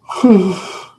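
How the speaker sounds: long tired sigh falling; loud weary sigh. Real, not acted. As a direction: sigh out heavily. Sleepy streamer sighs.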